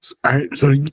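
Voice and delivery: losing his voice, a bit hoarse; scratchy worn-out throat voice. Real, not acted. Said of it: "I'm losing my voice".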